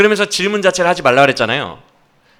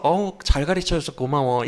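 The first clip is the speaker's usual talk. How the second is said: softer, mock-grateful tone; sarcastic thanks; 5 dB quieter than usual. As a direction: thank them with understated sarcasm. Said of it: "당연히 비꼬는 거겠죠". (낮춘 소리로 비꼬는 감사)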